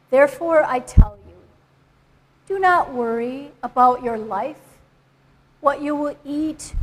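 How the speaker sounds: deliberate Bible reading, pausing after each phrase; scripture reading. Acted. Reader gives the congregation the passage in context, scripture reading. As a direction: read the passage out clearly, phrase by phrase. Second speaker reads the passage.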